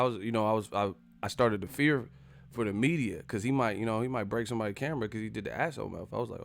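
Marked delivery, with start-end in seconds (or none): none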